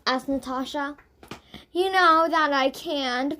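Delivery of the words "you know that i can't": moaning. Acted. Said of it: "moaned Jane".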